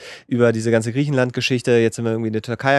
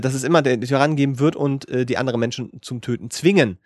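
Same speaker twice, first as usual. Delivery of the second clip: wizard voice. Acted. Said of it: "in der Zaubererstimme".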